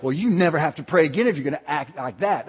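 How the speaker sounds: mildly huffy, conditional rebuke; mock scolding. Preacher showing how God didn't say it, mock scolding. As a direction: imitate a fed-up scolder withdrawing a privilege. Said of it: "That's not the tone of voice".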